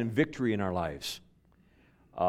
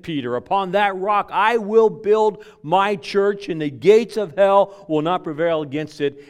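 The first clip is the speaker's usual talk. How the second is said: solemn proclamation; 7 semitones higher, 9 dB louder than usual. Acted. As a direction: proclaim it with full conviction. Peter and Lord quoted.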